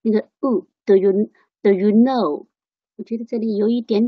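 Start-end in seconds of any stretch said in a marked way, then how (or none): 0.8-2.5 "do you know" with do reduced to "duh"; weak form of do. Shown as a demonstration. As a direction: practise "do you know" with a schwa in do. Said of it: "最主要是一个的". (do轻读成“的”)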